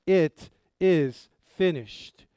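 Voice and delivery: It is finished called out slow, loud and triumphant; victorious declaration. Shown as a demonstration. Pastor showing Jesus' cry from the cross, triumphant shout. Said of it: "He declared it victoriously".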